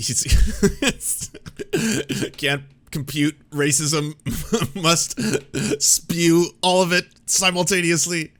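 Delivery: loud, slow mock robot voice through laughter; hammed-up robot stuck in a loop; malfunctioning robot. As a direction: play a glitching racist robot. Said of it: "his racism's malfunctioning".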